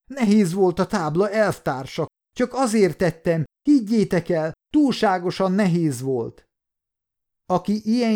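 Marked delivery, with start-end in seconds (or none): 0.1-6.5 high-pitched pleading whine; whining like an old woman. A narrator's reading. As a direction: act out a man whimpering excuses to his captors. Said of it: "vinnyogni kezdett, mint valami öregasszony".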